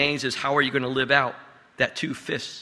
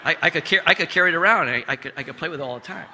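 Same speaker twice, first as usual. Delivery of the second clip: put-on laughing child quote; 2 semitones higher, faster than usual. Child's answer retold, laughing.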